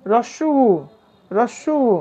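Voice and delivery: রস্য উ with the final u held; drawn-out u. Shown as a demonstration. Teacher naming the vowel sound for students, drawn-out উ. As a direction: stretch the উ at the end of রস্য উ. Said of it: "আরও দীর্ঘ হবে".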